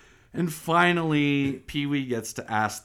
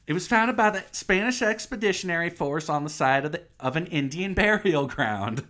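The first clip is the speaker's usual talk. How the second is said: fake tour guide; 4 semitones higher than usual. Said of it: "fake-ass tour guide".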